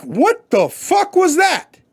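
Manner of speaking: slow, high alarmed yell at a crash; mock shocked shout; startled shout. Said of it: "I'm like".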